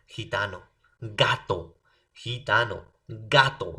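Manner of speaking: "gitano" with a raspy J sound, "gato" with a hard stopped G; contrasting G sounds. Shown as a demonstration. Teacher showing students two sounds of G, contrasted "gitano" and "gato". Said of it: "por eso tienen diferentes sonidos".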